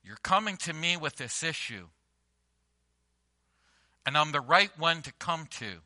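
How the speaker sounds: soft, low, gentle reassurance; tender Jesus. Retold or imitated. Jesus gently answering his mother Mary, soft and low. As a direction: speak gently to a worried friend. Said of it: "essentially what he's saying is".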